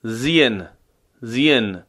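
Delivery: زین with a slight i sound before the long vowel; زین said as zien; light kasra. Shown as a demonstration.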